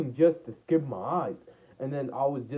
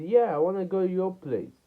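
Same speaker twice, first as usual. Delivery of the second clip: higher-pitched, lightly imitated eager girl; lightly voiced girl; 7 semitones higher, 3 dB louder than usual. Girl confirming she wants to visit, lightly voiced higher. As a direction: lift the pitch for her answer. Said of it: "Then she said".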